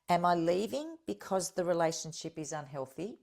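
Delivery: each question spaced out with long pauses for note-taking; unhurried, let every question land; said slowly. Shown as a demonstration. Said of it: "And I'll say them slow".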